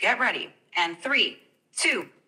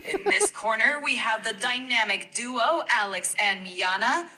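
sportscaster. Pretend. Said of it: "Can you count us in and sound like a sportscaster?".

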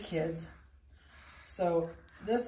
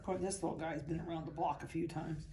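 usual speaking voice

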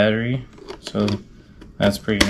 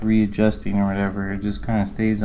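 speaking through face-covering helmet; muffled inside a helmet. Real, not acted. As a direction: voice behind closed visor. Seen 3: Full helmet covers the speaker's face and mouth throughout the labelled words.

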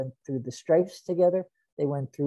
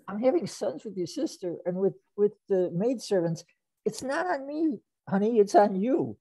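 higher-pitched retelling of a harsh rebuff; harsh retort; 5 semitones higher than usual. Retold or imitated. Yaakov turns on Rachel over praying for children, mildly harsh retort. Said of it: "he was harsh when he did that".

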